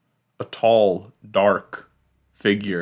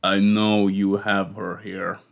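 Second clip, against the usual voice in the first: put-on stern old man. Old man confronts Carol in diner.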